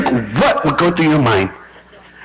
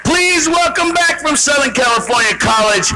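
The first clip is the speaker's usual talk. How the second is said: raised stage-host call, slowing at the end; announcer introduction. Real, not acted. Host bringing Entourage back on stage, announcer call. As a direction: build the welcome, then stretch out the name.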